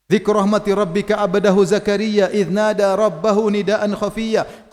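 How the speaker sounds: steady, sustained Arabic verse recitation; measured scripture recitation; Quran recitation. Acted. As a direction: recite the verse in an even, flowing line.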